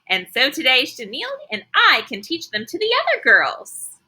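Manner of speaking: high, excited calling out; eager twins. Acted. Twins call out to Mister Scary, high and excited. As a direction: squeal it like an eager little girl. Twin offers to teach.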